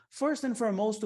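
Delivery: FIRST lifted and stretched; first and foremost, drawn out. Shown as a demonstration. Teacher modelling an interview opener, slow and lifted. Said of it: "se você lançar um first and foremost".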